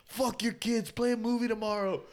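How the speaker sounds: mock pleading. Pretend begging friend Gabby for milk, whiny mock plea. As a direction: beg like a needy kid, laughing by the end.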